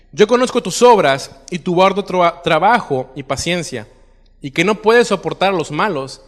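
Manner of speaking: projected, declamatory Bible reading; preacher reading scripture aloud. Acted. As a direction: read the passage out to a congregation, leaning into each opening phrase. Reads scripture aloud to congregation.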